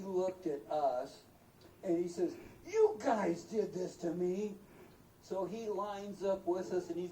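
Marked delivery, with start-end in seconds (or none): 2.7-4.6 angry moose. Retold or imitated. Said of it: "he was so mad".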